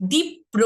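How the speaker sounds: দীপ্র split as "dip-pro"; দ্বিগুণ প. Shown as a demonstration. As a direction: double the p in দীপ্র, high first beat. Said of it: "দুইবার হয়েছে কিন্তু". ("দীপ্র" বলো দীপ্-প্র)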